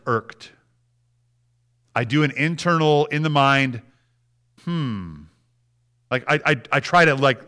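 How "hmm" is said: low, soft reflective hum; pondering hmm. Shown as a demonstration. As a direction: pause on a quiet, thoughtful hmm. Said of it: "audibly in my mind say that".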